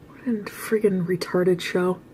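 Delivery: slow unvoiced whisper aside. Real, not acted. Vlogger whispering a scornful aside about the show, slow. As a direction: mutter it under your breath. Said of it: "aside whisper".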